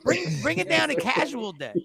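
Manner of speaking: shouted high, then easing down; calling out to a friend across the studio; mock yell at Amir. Host mock yelling at co-host about his suits. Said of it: "And I was like".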